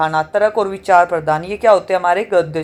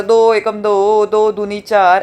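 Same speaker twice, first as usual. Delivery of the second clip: drawn-out singsong times-table recital; slow schoolroom recitation, lightly imitated; child reciting tables aloud; much slower than usual. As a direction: imitate a first-grader chanting tables. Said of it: "पहली कक्षा का बच्चा जोर जोर से पढ़ेगा".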